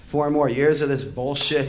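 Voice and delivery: a furious rock singer shouting from the stage; roared. Retold or imitated. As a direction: roar it at the crowd. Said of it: "he roared".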